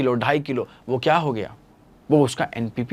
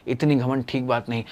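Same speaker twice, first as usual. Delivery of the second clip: softer, calm scolding; gentle rebuke; 2 semitones lower, 6 dB quieter than usual. Retold or imitated. Teacher softly scolding the proud aquatic. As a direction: quietly chide the proud one. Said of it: "मैंने क्या कहा?".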